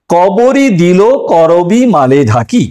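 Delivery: very slow, savoured reading of a verse line; slow recitation. Shown as a demonstration. Teacher repeating a favourite example verse, very slowly. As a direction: linger on each word of the verse. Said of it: "সুন্দর একটি উদাহরণ".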